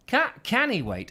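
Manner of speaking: "can he wait" said as Scottish "cannae wait"; Scottish accent. Retold or imitated. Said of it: "she's suddenly gone Scottish".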